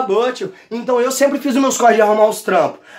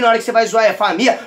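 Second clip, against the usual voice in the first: usual speaking voice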